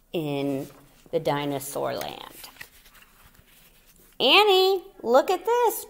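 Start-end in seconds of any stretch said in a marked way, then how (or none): 4.2-5.9 high, loud call to his sister. A narrator's reading. Jack calling to Annie across the hill, high and loud. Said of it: "Jack called".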